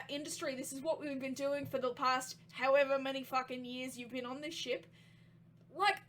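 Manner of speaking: put-on Australian-accented captain reasoning with an employee. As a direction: argue your case in an Australian accent. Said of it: "the Australian keeps getting Australian accents".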